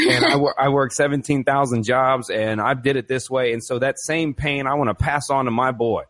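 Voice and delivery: mild mock country accent, smug; lightly drawn country accent bragging about hardship. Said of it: "I don't know why he's got a country accent".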